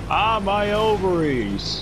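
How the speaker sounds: slow, hammed-up wail; mock pained cry. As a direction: ham up a pained moan. Comic pain cry.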